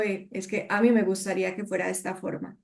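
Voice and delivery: más suave y más rápido, como una petición; pídelo con suavidad, sin imponer; tono amable. Shown as a demonstration. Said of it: "a cuando yo digo". (petición suave y amable)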